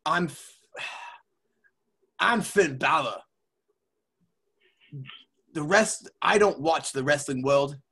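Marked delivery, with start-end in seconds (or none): 2.2-7.8 badly faked Irish accent; hesitant attempt at an Irish accent, slowing at the end; Finn Balor. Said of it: "you get to do an accent".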